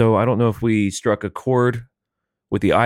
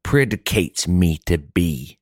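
florid gentleman orator; much slower than usual. Acted. Co-host bidding sir go on, as a florid orator. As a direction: grant permission with drawn-out grandiosity.

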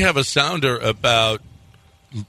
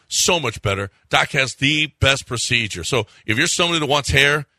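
ad read; 2 semitones higher than usual. Acted. Live radio ad read.

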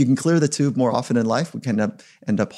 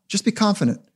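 pushy coach; 9 semitones higher than usual. Retold or imitated. Imitating an unskilled coach urging Mike, mock pep talk, higher. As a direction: ham up a clueless coach cheering Mike on. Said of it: "I got taught something".

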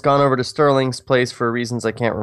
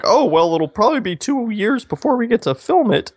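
naive younger self; 8 semitones higher than usual. Retold or imitated. Quoting his younger self.

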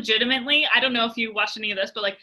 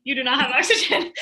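laughing. Retold or imitated. Retelling brain's panic, repeated laughing.

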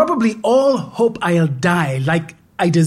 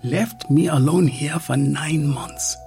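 muttering; 3 semitones higher than usual. Acted.

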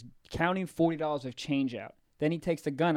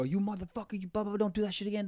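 fake tough; 4 semitones higher, 5 dB quieter, faster than usual. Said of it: "trying to act all hard".

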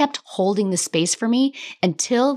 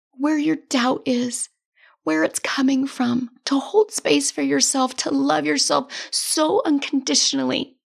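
real tears, voice held higher and slowed; crying; 4 semitones higher than usual. Real, not acted. Coach tearfully crediting her own inner work, crying. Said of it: "I'm crying again".

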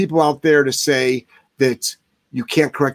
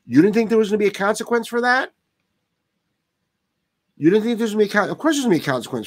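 incredulous rant; 7 semitones higher, much faster than usual. Real, not acted. Ranting at dog owners.

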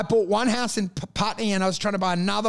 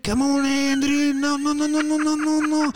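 put-on South African accent, higher and pleading; a South African dad calling Andrew, rising; South African father voice building higher; 5 semitones higher than usual. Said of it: "do the South African accent".

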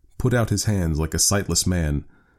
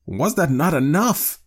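slow, high-pitched indignant challenge; fierce demand; 11 semitones higher, 3 dB louder, slower than usual. A narrator's reading. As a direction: demand it fiercely, weighing the words. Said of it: "he demanded fiercely".

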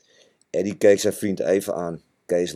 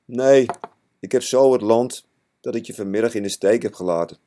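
sobbing; 2 semitones higher than usual. Acted. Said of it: "Toen kwam het er snikkend uit".

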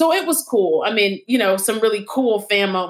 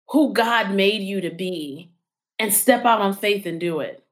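earnest advice; 2 semitones lower, much slower than usual. Real, not acted. Slow inspirational advice.

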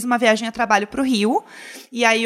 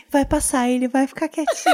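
put-on scared little kid; 3 semitones higher than usual. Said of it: "como se eu tivesse cinco anos".

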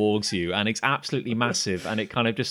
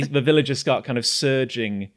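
ordinary talk

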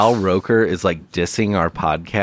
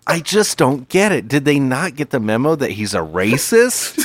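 higher, laughing mock bafflement; mock TV host; 6 semitones higher than usual. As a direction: play a puzzled morning host sneering at the show. Continues mocking the TV hosts.

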